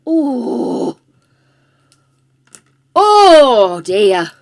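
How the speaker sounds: thanks through a laugh. Real, not acted.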